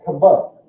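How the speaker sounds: "Kva" back to front; syllable demo. Shown as a demonstration. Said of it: "from the back to the front".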